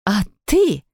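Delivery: sharp angry cry; mother rounds on father; angry outburst. Acted. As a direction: turn on him in anger. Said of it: "закричала мама".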